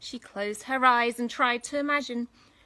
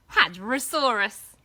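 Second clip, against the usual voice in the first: dinosaur voice; 9 dB louder, slower than usual. Acted.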